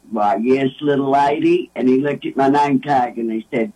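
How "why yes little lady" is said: lower, drawling imitation of the announcer's voice; a fond, lightly done radio-man impression; Vols announcer voice. Waitress retelling the Vols announcer's gallant reply, in a lower, lightly done voice. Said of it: "And he said in that voice".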